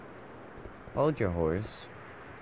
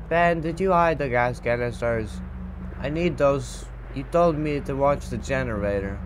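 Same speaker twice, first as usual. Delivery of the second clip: raised voice, pitched up; calling out; 3 semitones higher, 4 dB louder than usual. Pretend. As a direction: call across to a missing coworker. Calling to Ben about canisters.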